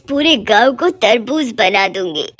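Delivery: a hint of a menacing witch; threatening witch. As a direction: vow it like a scheming witch.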